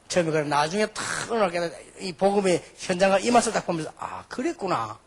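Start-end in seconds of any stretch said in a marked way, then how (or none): 4.0-5.0 retold realization. Acting out a pastor's realization.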